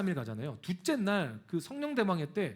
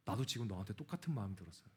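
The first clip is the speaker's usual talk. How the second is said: much lower and softer, crying; tearful; 10 semitones lower, 9 dB quieter, faster than usual. Retold or imitated. Preacher retells sister's tearful reply, low and soft. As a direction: speak through tears. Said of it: "펑펑 울면서".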